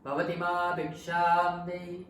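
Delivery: impatient repeated alms call; impatient monk calling again. Retold or imitated. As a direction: call out again, losing patience. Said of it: "So he was like again".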